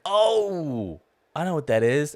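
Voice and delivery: high, drawn-out "Oh" of recognition; mock wide-eyed realization; retold delighted recognition. Retold moment of catching the reference.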